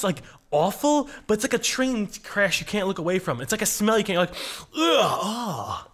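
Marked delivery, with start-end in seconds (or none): 4.3-5.9 drawn-out "ugh" into a relieved "ah"; disgusted groan. Shown as a demonstration. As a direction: groan at a smell you can't resist. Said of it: "that's the only way I can describe it".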